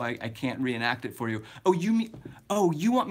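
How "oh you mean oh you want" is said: sudden realization. Real, not acted. Realizes what the viewer meant.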